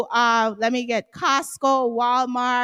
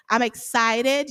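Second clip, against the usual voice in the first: excited; slower than usual. Real, not acted. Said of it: "Y'all can hear it in my voice".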